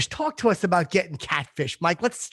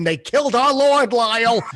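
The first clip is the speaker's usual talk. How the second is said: imitated mother's scream; 6 semitones higher than usual. Son imitating his mother waking up stuck to the bed, mock scream. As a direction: mimic mother crying out from bed. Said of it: "and she would scream".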